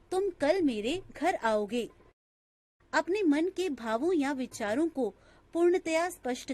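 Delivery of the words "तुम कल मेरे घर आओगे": "तुम कल मेरे घर आओगे" with weight on तुम कल and a break before घर; varied intonation. Shown as a demonstration. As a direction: lean on "तुम कल", pause briefly before "घर आओगे". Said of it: "कभी-कभी एक ही वाक्य का उच्चारण जब भिन्न-भिन्न अनुतान".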